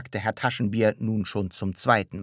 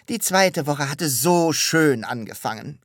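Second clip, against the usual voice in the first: mildly rapturous, louder and higher; gushing; 6 semitones higher, 6 dB louder than usual. A narrator's reading. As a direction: linger fondly on how lovely it began. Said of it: "schwärmte Herr Taschenbier". (schwärmerisch)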